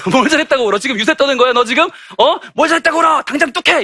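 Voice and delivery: high, escalating mum's telling-off; comic imitation of a fed-up mother; mock scolding mother. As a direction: order a crying child to stop, hammed up. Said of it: "그때 엄마가 하는 말이 있습니다".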